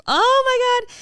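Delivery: high, loud imitated outburst; overwhelmed exclamation. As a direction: cry out, acting out an overwhelmed friend. Retells friend's emotional outburst.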